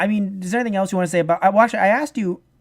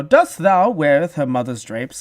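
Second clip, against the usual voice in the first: mock old English; 3 semitones lower, 3 dB louder, slower than usual. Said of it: "they all have to be like".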